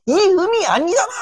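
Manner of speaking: high, sharp shout at a wrong note; a high-pitched scolding cry; angry teacher yell. Retold or imitated. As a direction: bark it like a furious vocal coach. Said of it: "이렇게 하기도".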